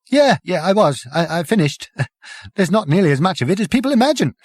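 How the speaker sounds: high, breezy, on the verge of laughing; giggly. Acted. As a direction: giggle through it. Prack giggling through answers.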